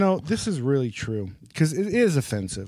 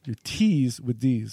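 repeats "Your T's with D's." slowly, like testing an Indian accent; slow Indian accent rule; slower than usual. Shown as a demonstration. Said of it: "What was it?".

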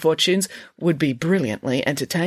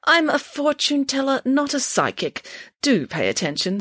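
scolding; 9 semitones higher than usual. Acted. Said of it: "scolded Nanny Piggins".

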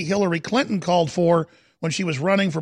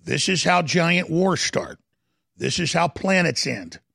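slow, deliberate delivery; very slowly. Real, not acted. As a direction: say it slowly, spacing out each phrase. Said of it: "I'm gonna say this very slowly".

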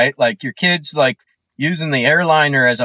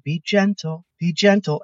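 calm, sweet voice. Retold or imitated. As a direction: coo it mildly like a patient mom. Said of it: "in the calmest, sweetest voice saying".

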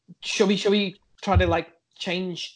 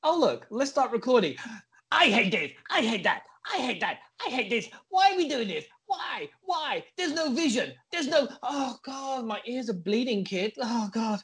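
high-pitched whiny imitation of a rant; mock pointless ranting; 5 semitones higher than usual. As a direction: mimic the co-host's endless complaining, pitched up. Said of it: "Kit's Pointless Ranting".

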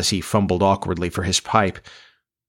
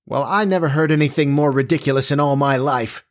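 higher-pitched indignant mother; mother's scandalised outburst, pitch raised; bursting out; 6 semitones higher than usual. A narrator's reading. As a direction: burst out in disbelief. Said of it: "Florence burst out finally".

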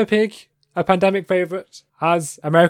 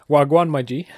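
imitating toddler slang. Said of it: "a toddler going around saying".

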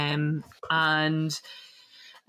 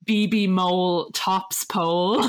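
1 headline read out; slower than usual. Retold or imitated. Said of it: "a light shining on it that says".

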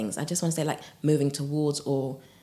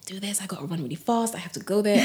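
hurried striving; 3 semitones higher, faster than usual. Acted. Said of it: "the running or the chasing".

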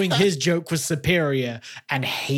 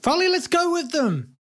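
Finn's voice. Acted. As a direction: answer in the big tree's character voice. Player voices Finn.

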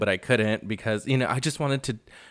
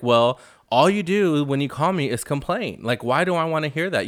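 higher-pitched mock complaint; retold exasperation; 4 semitones higher than usual. Recapping Kyle's comeback to Kathy in their quarrel, exasperated. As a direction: act out an exasperated sister's comeback.

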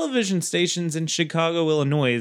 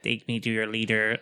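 low, quiet robot voice; flat robotic alien voice; 5 semitones lower, 5 dB quieter than usual. Pretend. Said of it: "like, were real robotic".

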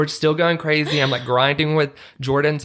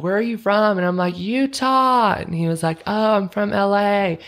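higher voice, raised over the club; mock yelling over music; 7 semitones higher than usual. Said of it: "We're, like, screaming".

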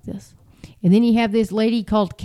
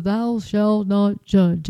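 slow, drawn-out mimicry of verse quoters; mock-quoting scripture; much slower than usual. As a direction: intone it slowly, imitating the misquoters. Mimics people misquoting the verse.

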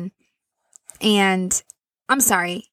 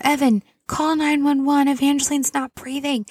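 higher, urgent call to her husband, retold; calling out urgently; 5 semitones higher than usual. Mom telling her husband to call 911, retold urgent call. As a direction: mildly re-enact yelling for help from the other room. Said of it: "And then I call out".

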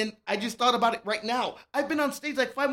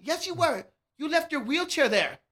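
much higher, sharper scolding wife voice; the wife catching him out, pitched way up; 8 semitones higher than usual. Acted. Joke's wife at the door scolds her drunk husband in a high voice.

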